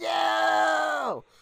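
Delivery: very high, long, ragged, rough scream. Retelling how Bobcat reacts to the hourglass shattering: imitating a scream. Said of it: "Bobcat's screaming".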